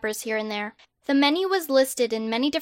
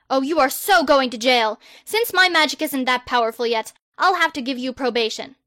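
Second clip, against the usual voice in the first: put-on pompous boy wizard. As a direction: proclaim yourself like a hero. Harry sentences.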